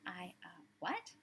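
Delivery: shocked man hears he might go to jail, stammering; stunned what. Acted. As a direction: gasp it out in shock. Stunned man hearing threat.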